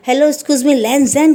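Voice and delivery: mild retold call to someone leaving. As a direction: call out his name to stop him. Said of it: "करके बुलाता है".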